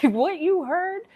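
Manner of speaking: strained voice. Real, not acted. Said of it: "I'm talking like this".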